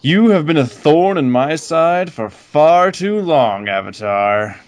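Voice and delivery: slow, menacing demon line; villain quote. Retold or imitated. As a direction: deliver it like a giant red demon. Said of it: "I will share this one".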